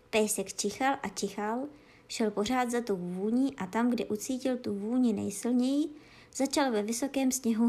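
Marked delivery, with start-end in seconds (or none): none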